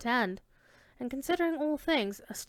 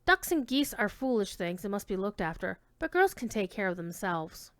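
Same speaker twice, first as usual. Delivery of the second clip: sage housewife; 3 semitones lower than usual. Acted. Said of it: "sagely observed".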